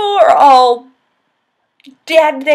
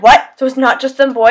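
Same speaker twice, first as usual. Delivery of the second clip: quoting Rhysand's surprise; 5 dB louder than usual. Retold or imitated. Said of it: "he's like".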